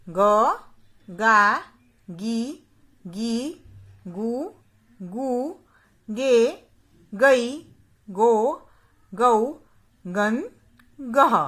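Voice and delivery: क, का, की... each syllable spoken slowly and clearly, with short and long vowels kept apart; बारह खड़ी को साफ़-साफ़ बोलना; reciting barakhadi. Shown as a demonstration. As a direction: drill each sound of क like a teacher to children. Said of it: "उसका उच्चारण करके बताऊंगी".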